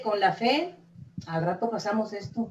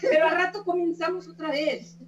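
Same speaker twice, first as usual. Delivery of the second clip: higher, words broken by laughter; laughing while talking; 7 semitones higher than usual. Real, not acted. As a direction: talk through the giggles. Keeps talking through the laughter.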